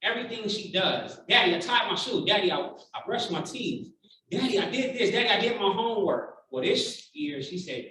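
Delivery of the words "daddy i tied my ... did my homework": lightly voiced eager child, a bit higher; hint of a kid showing off; daughter's proud reports. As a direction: imitate a little girl reporting to Daddy. Imitating proud young daughter reporting.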